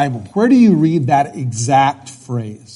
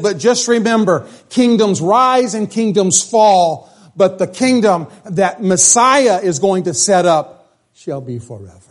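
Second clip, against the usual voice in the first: solemn preached promise; 2 semitones higher than usual. Retold or imitated. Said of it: "He said".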